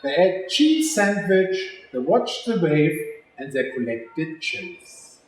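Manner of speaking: put-on lively storybook read-aloud for kids; reading to children. A narrator's reading. Teacher reading a picture book to children, lively and clear. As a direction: read it like story time with little ones.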